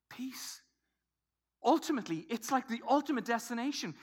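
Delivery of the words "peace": whispered, very soft single word; hushed. Acted. Preacher quotes Jesus speaking peace, hushed whisper. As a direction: breathe it out as a whisper.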